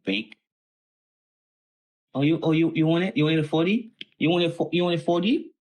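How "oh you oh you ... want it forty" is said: taunting. Real, not acted. Taunting the market, high.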